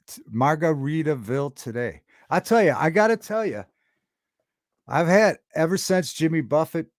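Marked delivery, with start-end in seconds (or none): 2.3-6.9 worked up. Real, not acted. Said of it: "trying to calm down and not scream".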